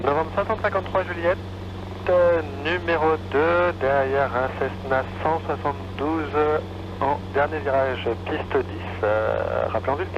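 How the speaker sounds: tinny controller voice; over a radio. Real, not acted. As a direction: heard through the headset. Tower calls over the radio.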